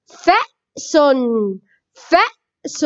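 فأس in two parts, a pause after the first; sounded-out word. Shown as a demonstration. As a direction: break فأس into fa', then sun. Teacher sounds out example word. (تقطيع كلمة فأس إلى مقطعين)

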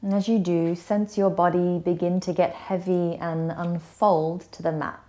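gentle yoga nidra guidance with long pauses; guided meditation. Acted. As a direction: ease them into rest, unhurried and slightly hushed. Leads a guided relaxation.

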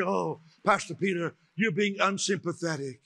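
lightly hammed-up fake sympathy, oohing; imitating a gushing comforter; a hint of cooing pity; mock sympathy. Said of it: "You say".

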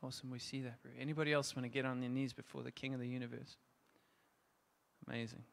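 quiet, gentle ministry voice, encouraging those kneeling; soft altar call. Real, not acted. Preacher softly inviting the congregation to kneel, in a hushed ministry voice.

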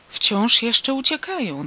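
loud, high, stretched-out cry; shrieking. A narrator's reading. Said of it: "wrzasnął sąsiad". (głośny, wysoki, przeciągły wrzask)

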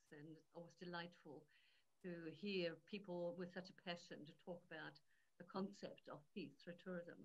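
faint, distant mic voice; barely audible. Real, not acted. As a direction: sounds far from the microphone. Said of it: "your voice is very faint".

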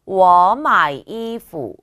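워 마이 이푸 very slow and loud, each tone drawn out; model reading. Shown as a demonstration. Teacher reads the sentence for learners, slow exaggerated tones. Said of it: "두 번만 읽어볼게요".

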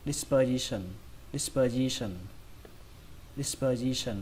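"Dispersion" in one quick run; brisk, connected "Dispersion". Shown as a demonstration. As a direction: say "Dispersion" smoothly without breaks. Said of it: "Các bạn đọc nhanh hơn".

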